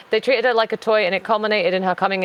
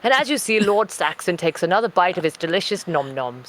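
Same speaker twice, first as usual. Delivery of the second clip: posh, measured nature-documentary narrator; David Attenborough. Acted. Narrating the cat taking a bite, posh documentary voice. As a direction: narrate it like wildlife television. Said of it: "I'm David Attenborough in this".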